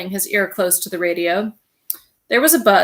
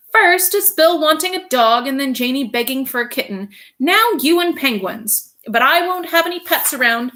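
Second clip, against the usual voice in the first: higher voiced, firm housewife; stern wife voice; 5 semitones higher, 4 dB louder than usual. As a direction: lay down the law, lightly.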